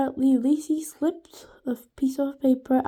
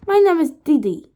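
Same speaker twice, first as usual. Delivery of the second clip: put-on higher, louder little-girl voice; small, energetic girl; 4 semitones higher, 9 dB louder, faster than usual. A narrator's reading. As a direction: pipe up, small but full of energy. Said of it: "Her voice was small but full of energy".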